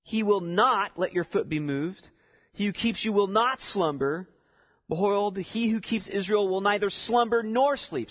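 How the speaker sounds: "not", "neither" and "nor" punched out; stress on the negatives. Shown as a demonstration. Preacher showing the congregation the intensifying negatives, stressed "not" and "nor". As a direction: lean firmly on each "not" and on "nor". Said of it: "his use of intensifying negatives".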